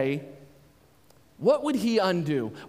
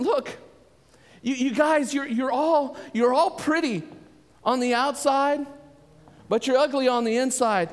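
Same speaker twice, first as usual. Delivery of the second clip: stern rebuke; 5 semitones higher than usual. Retold or imitated. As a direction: scold them firmly. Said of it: "He tells them".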